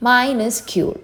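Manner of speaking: "Minuscule" said carefully, falling at the end; deliberate teaching take of "Minuscule"; pronunciation demo. Shown as a demonstration. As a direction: model "Minuscule" clearly for learners. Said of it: "pronunciation നോക്കാം".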